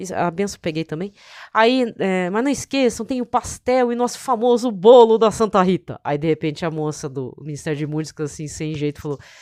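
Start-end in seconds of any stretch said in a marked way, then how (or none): 2.3-6.0 loud, animated, excited announcing voice. Retelling a deacon's announcement at a church event: imitating an excited deacon. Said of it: "ele tava animado".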